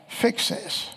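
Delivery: hushed, breathy "Fix this." under the breath; soft imitated plea, no voice; whispered plea. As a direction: whisper the order like a frightened aside. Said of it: "they simply just cried out".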